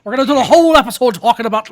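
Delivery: fast and loud hype; excited. Real, not acted. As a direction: rush it out with excitement. Announcing the pirate edition.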